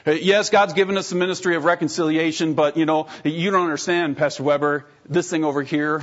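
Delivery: a churchgoer making excuses; defensive churchgoer excuse. Retold or imitated. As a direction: push back at the pastor. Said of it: "I'm just not gonna touch it there".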